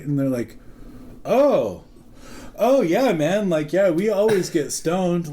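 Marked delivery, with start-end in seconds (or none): 1.2-5.3 eager cooks. Retold or imitated.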